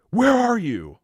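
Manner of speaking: high, loud demanding yell; imitating angry boss shouting. Boss hunting down employee, angry shout. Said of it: "how many screaming matches we've had".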